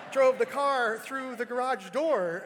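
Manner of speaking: slow, loud, laughing through the words; can't keep a straight face while saying it. Real, not acted. Retelling, breaks into laughter.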